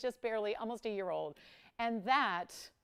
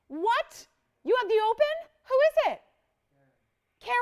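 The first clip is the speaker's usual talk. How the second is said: real surprise; 13 semitones higher, 11 dB louder than usual. Real, not acted. Learns a bid came in.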